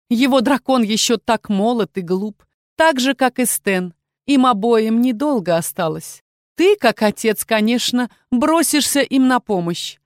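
mildly triumphant evil queen; scheming queen, lightly voiced. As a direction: lay out the plan with a touch of menace.

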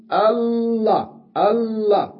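chant-like demo of الله; drawn-out Allah. Shown as a demonstration. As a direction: stretch the alif in الله.

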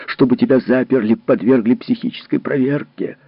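frighten her into obeying; threatening rage. Acted. Husband threatens wife with the asylum.

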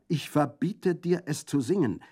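high, loud, furious forbidding yell; terrible shout. A narrator's reading. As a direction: bellow the ban at the frightened girl. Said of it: "schrie Orso mit schrecklicher Stimme".

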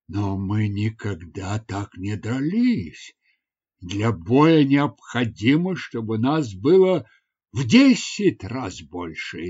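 slow, slightly low hesitant objection; lightly voiced reluctant warrior, taking it slowly; doubtful warrior. (неуверенный воин)

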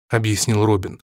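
usual speaking voice

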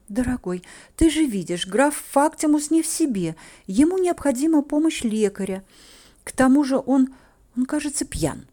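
high, insistent appeal; urgent persuasion. A narrator's reading. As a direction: plead your case to a sweetheart. Heroine pleads with her lover.

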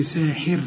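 ساحر ending on a still, light r; pausal light ra. Shown as a demonstration. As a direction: stop on ساحر with a thin r and no vowel. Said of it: "وإذا وقفنا عندها هنسكنها".

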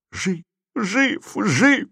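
тонкие высокие выкрики; подхвати радостный крик высоким голосом; восторженный крик. A narrator's reading. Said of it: "закричал и Марик". (высоко, радостно выкрикивать)

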